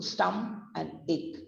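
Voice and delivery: "stomach and ache" as STUM plus a K ending; split into parts. Shown as a demonstration. Teacher showing how we say stomach, in separate parts. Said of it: "हम बोलते हैं उसको".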